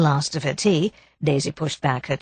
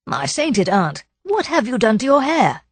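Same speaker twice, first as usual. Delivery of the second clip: mock shocked; 7 semitones higher than usual. Philip startled by Daisy's shingled hair, mock horror. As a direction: gasp at the new haircut, hammed up.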